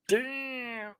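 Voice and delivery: breathy, high whispered curse; whispered damn. Real, not acted. Trader whispering damn at a sudden price move. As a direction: hiss it under your breath at the chart.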